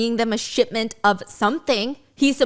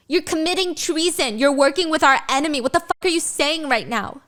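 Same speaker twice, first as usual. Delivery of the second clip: angry accusation; 5 semitones higher than usual. Acted. Violet accuses Xaden.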